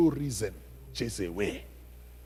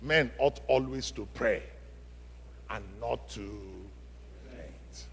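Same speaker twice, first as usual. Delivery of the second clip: fading from soft to barely audible, much lower; quiet scripture; 3 semitones lower, 7 dB quieter than usual. Acted. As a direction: let the verse die away into a hush. Verse fading to near silence.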